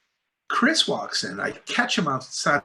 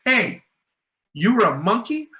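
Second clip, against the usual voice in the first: mock surprised; 8 semitones higher than usual. Actor's retold question.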